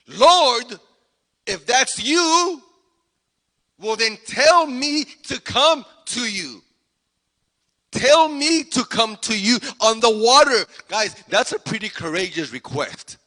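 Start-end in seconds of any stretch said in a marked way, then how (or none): 0.1-10.6 loud, raised call with spaced-out phrases; yelling back. Acted. Peter calls to Jesus from the boat, yelling back. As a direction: call out boldly across the water. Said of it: "Peter yells back".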